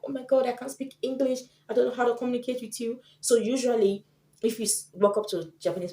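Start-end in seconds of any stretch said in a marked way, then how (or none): 0.0-3.0 a flustered, panicky stranger, higher and fast; mock panic at having to speak English. Shy Japanese stranger asked in English, flustered panic. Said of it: "they get shy and they're like".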